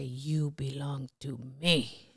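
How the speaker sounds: slow low whisper; hushed possessive whisper; whispered quote. Retold or imitated. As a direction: breathe it slowly like a possessive lover. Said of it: "and he would say".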